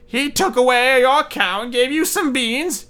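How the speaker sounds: high, scolding mother's shriek; mother yelling at her foolish son; angry mother. Acted. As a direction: scold him like a furious mother. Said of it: "She said".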